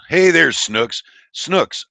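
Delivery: high, loud happy hello; light up as they come in; cheery loud greeting. Real, not acted. Streamer greeting a favourite mod, high and loud.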